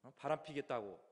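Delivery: mildly angry, insistent retort; mock anger. Five-year-old defying mother, mild mock anger. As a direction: act out a kid's defiant threat, lightly. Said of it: "화가 나가지고".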